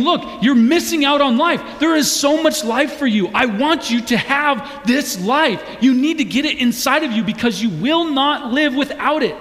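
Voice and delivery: high, impassioned preaching appeal; urgent pleading. Acted. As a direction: press every phrase home, imploring the listener. Preacher voices Jesus urging listeners.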